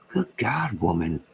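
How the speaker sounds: mock-outraged cry; exasperated exclamation. Real, not acted. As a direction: burst out in disbelief.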